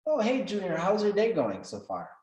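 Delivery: bright, high friendly hello; cheery greeting. Retold or imitated. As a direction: greet him like a pal. Mentor greets him at studio.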